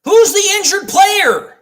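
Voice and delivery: disbelieving, pressing the point. Real, not acted. Streamer at the suspected fake injury: incredulous demand. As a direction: pitch jumps up on who's.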